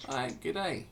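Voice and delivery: a light Australian accent on the blacksmith's greeting. Shown as a demonstration. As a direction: greet them like a friendly Aussie shopkeeper. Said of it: "Not with the Australian accent".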